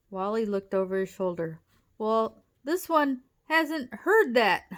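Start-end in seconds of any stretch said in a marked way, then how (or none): 2.0-4.6 slow, higher, louder puffed words; puffing. A narrator's reading. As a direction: puff it out on the run. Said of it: "Wally puffed".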